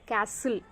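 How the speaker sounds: "castle" with no T, "kas-sil"; silent T. Shown as a demonstration. Teacher correcting students' pronunciation, "castle" with silent T. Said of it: "here T is silent".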